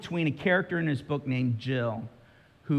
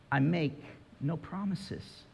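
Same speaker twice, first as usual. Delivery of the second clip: solemn lion; 3 semitones higher, 5 dB quieter, slower than usual. Retold or imitated. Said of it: "And the lion says to Jill".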